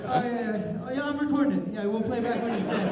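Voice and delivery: rally heaven for the show; God calling friends. Retold or imitated. God calls Jesus and Moses over, loud and excited. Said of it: "God was up in heaven like".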